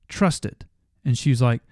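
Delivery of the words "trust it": slow, weighted words, each one pressed home; insisting the wife really hear it; insistent emphasis. Real, not acted. Husband urging wife, slow and insistent. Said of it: "I'm about to go off on this".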